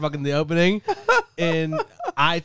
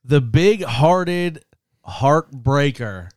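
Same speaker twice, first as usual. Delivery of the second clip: porn voice; 3 semitones lower, slower than usual. Acted. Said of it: "announce him in the porn voice".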